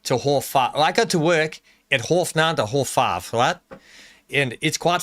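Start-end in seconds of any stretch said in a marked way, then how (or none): 0.0-3.3 a touch of South African, half as "horf", nine as "nan"; mild South African accent. Shown as a demonstration. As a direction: lightly try a South African voice. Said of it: "when you start to do that, you go".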